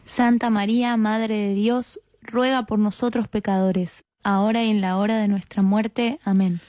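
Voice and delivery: measured, level-toned prayer response; rosary response. Real, not acted. Answering the leader's Hail Mary, recited prayer. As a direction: answer in a steady recited cadence, settling on Amen.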